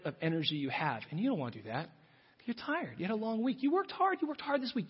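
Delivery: coaxing, tempting whisper-like voice of desire; a hint of a seductive temptress. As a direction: lure him gently toward rest. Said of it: "she whispers to you".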